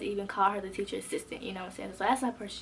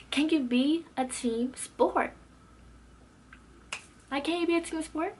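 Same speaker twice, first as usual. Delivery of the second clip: annoyed challenge; 5 semitones higher than usual. Retold or imitated. Student challenges classmate for cutting others off, annoyed.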